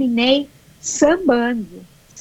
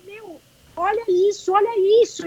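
high, awestruck urging to look; amazed exclamation; 7 semitones higher than usual. Retold or imitated. Runner marvelling at the race around her, high amazed exclaim. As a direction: marvel at the sight, voice lifted high.

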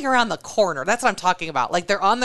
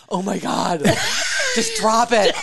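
high laughing plea; exasperated plea; 5 semitones higher, slower than usual. Retold or imitated. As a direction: beg the husband to stop staring. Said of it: "I'm like".

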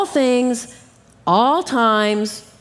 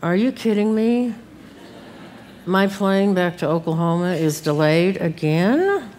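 mild grumble under a bad attitude; mildly exasperated mock grumbling; low-toned grumbling. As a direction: complain in a low, put-out tone. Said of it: "a low tone of voice".

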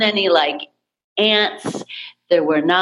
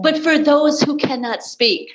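holding back tears; 6 semitones higher than usual. Real, not acted. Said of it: "I'm trying not to cry".

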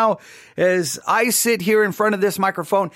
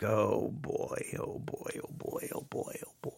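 whispered under the breath, sinking dread; a hushed oh boy, heart sinking; dismayed whisper; 10 semitones lower, 17 dB quieter than usual. Retold or imitated. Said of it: "and I'm gonna be like".

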